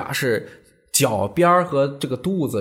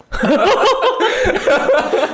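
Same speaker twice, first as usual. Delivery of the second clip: laugh; 14 semitones higher, 4 dB louder than usual. Real, not acted. Laughs at own joke.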